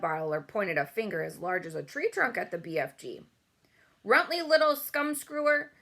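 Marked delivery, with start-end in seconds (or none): 4.0-5.7 high, loud angry giant yell; furious shout. A narrator's reading. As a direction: scream insults at him. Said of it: "he shouted".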